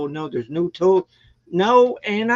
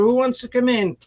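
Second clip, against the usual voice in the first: a repeated call to the cats, raised and pitched up; 6 semitones higher than usual. Retold or imitated. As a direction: call the cats in again over the storm. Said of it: "I was banging on the door".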